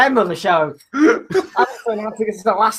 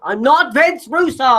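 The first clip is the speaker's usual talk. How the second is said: indignant protest; 5 semitones higher, slower than usual. Real, not acted. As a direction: protest it, outraged. Denying a wrestling insult.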